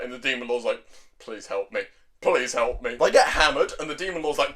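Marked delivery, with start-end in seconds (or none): 1.2-1.8 low, very soft mock begging; small, helpless aside; quiet plea. Demon Lord dreads sleeping with witch, quietly pleading. 2.2-3.0 lower-pitched mock begging at normal volume; emphatic, deadpan cry for help; insistent plea. Demon Lord repeats plea for rescue, insistently.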